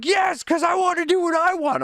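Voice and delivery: put-on high pouty kid voice; mock spoiled little boy; child's voice. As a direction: whine it like a stubborn child. Son insists on his way.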